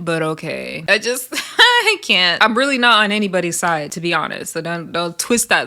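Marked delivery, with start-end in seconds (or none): 0.9-2.4 laughing. Real, not acted. Amused at the contradiction.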